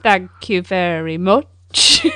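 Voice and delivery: slow, low, deadpan thank you; sarcastic thanks. Real, not acted. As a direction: drag out a dry, sarcastic thanks.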